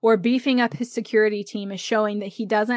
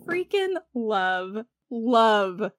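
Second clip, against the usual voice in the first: laughing gush; 3 dB quieter, slower than usual. Real, not acted. Gushing over favorite characters.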